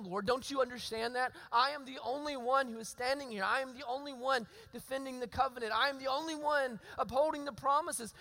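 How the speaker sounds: desperate plea. Acted. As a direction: pour out despair, voice straining upward. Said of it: "you can hear the desperation in his voice".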